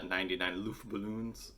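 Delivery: lightly attempted German accent; terrible German accent. Host giving the German song title, terrible German accent. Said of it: "which is a terrible German accent".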